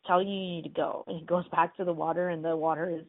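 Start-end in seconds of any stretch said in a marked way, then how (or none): 0.1-1.0 mildly insistent retold order; a touch of bossiness; pushy. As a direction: press him to get moving. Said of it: "but she's really pushy".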